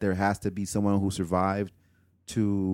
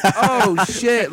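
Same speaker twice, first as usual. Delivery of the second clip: surprised; 9 semitones higher, 6 dB louder than usual. Retold or imitated. Retelling own reaction.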